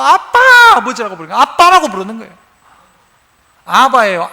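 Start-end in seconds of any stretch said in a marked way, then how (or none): 0.0-0.4 calling out abba. Retold or imitated. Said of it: "예수님이 하나님을 향해서".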